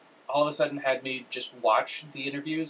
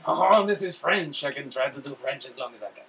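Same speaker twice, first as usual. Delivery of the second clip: French accent; 4 dB louder than usual. Shown as a demonstration. Host retrying after co-host's objection, French accent. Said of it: "now go to your French accent".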